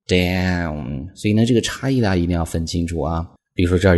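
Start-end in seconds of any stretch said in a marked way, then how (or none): 0.1-1.1 "down" with a full gliding diphthong, ow. Shown as a demonstration. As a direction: open the mouth wide for the "down" diphthong. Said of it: "上面是一个双元音". ("down"读成双元音)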